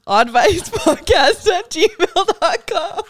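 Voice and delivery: high, slow, laughing address read; slow laughing repeat. Shown as a demonstration. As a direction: spell it out slowly through a laugh. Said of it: "Again, that's advice".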